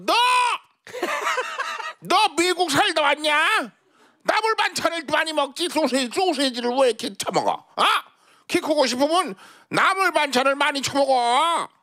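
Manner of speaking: put-on high, scolding old lady with laughs; foul mouthed granny. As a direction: bark at him like a cranky granny. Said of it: "욕쟁이 할머니였어요".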